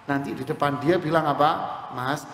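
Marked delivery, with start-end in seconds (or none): 2.0-2.3 drawn-out slow alhamdulillah; overly pious greeting to a sick friend; mock serene. Visitor mocked saying it wrongly.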